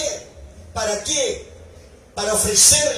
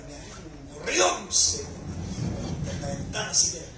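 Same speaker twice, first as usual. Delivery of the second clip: laughing through words; 9 semitones lower, 8 dB quieter, slower than usual. Retold or imitated. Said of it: "laugh heard".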